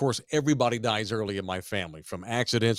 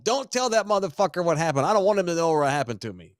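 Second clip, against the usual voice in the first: mock spiteful wife; 5 semitones higher, faster than usual. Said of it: "she told him".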